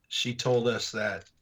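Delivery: slow, words catching with emotion; choking up. Real, not acted. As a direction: hold back tears as you speak. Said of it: "I'm choking up a little".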